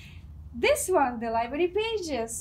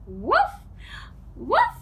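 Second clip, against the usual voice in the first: rising puppy bark; 4 semitones higher than usual. Pretend. Voicing the dog Biscuit.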